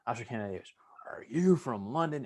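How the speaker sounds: a drill instructor grilling a recruit; drill instructor's tone. Retold or imitated. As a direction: bark it like a drill sergeant. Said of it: "you gotta get the tone right of the voice".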